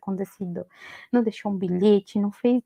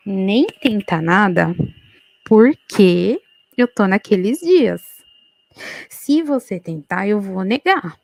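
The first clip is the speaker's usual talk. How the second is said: slow, louder, every word set down; firm warning; 6 dB louder, slower than usual. Retold or imitated. Wife warning her husband not to try anything, slow and louder. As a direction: lay down the law, slowly and loud.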